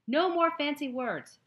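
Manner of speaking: loud, slow, high demand. A narrator's reading. Heroine to captor, loud and slow demand. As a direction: spell each word out, fed up. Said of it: "she demanded".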